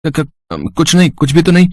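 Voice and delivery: stammer, then a high hurried denial; flustered denial. Acted. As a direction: caught out and covering up. Caught whispering, stammers a denial.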